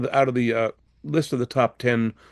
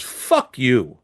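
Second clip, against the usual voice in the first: gruff dismissal; 4 dB louder than usual. Retold or imitated. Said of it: "And Harry goes".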